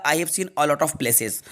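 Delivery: very slow, each word apart; slow dictation. Shown as a demonstration. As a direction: read the answer slowly. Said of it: "यहाँ पर ए आएगा". (बहुत धीमे, हर शब्द अलग)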